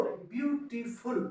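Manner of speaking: "ब्यूटीफुल" split into three separate beats; syllable-by-syllable demo. Shown as a demonstration. Teacher asking students to count syllables, "ब्यूटीफुल" in three separate beats. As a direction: break "ब्यूटीफुल" into ब्यू, टी, फुल. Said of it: "कितने लफ्जों पे पड़ रहा".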